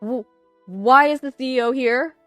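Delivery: loud, high, stammering question; stammer, then cry out in panic; high-pitched alarmed yelp, rising at the end; panicked. A narrator's reading. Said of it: "Ethan asked in a panic".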